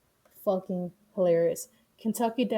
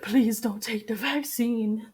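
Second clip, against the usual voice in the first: slow, blubbering imitation; hammed-up sobbing plea; mock crying; 2 semitones higher, slower than usual. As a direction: plead through exaggerated fake tears. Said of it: "like, crying. He's like".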